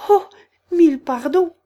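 high, loud hurried apology; quick cry. A narrator's reading. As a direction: blurt the apology out in alarm. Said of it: "s'écria vivement". (excuse criée, vive, aiguë et forte)

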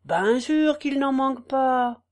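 lightly voiced farm wife, musing; repeating herself. Farm wife repeating herself while she thinks, musing. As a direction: mutter it over like a refrain. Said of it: "en répétant toujours".

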